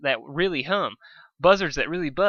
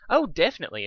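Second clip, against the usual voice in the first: Fluttershy voice; 5 semitones higher, faster than usual. Acted. Dusk's line mistakenly said in Fluttershy's voice. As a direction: still in the gentle pony voice. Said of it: "I'm still talking in Fluttershy's voice".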